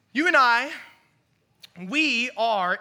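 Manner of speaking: preacher raising the voice; preaching emphasis. Real, not acted. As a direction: drive it home to the room. Sermon emphasis.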